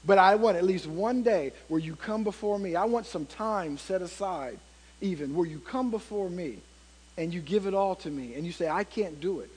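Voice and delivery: softened, understated voice of God; lightly voiced God. God asking busy people for one day, lightly voiced and soft. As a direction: speak God's plea quietly, with only a light touch of role. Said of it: "And God is even saying".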